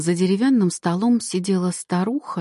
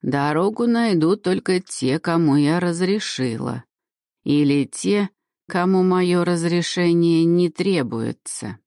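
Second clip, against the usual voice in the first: creaking crone, slowing at the end; an old witch laying down her rules; creaky old woman voice. Acted. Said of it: "всё так же скрипуче".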